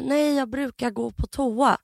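slow imitated patient with limited Swedish; slow, simple-sounding answer; halting non-native speaker. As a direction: lightly mimic a learner of Swedish. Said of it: "inte heller så bra på svenska".

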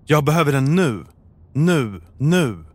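urgent plea, each nu hit separately; agitated, insistent repetition; upset. A narrator's reading. Upset caller demanding an ambulance from the emergency operator now. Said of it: "säger hon med upprörd röst".

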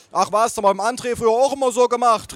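high-pitched motherly dismissal; mother calling out. Acted. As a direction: wave it off in a high voice. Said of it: "rief meine Mutter".

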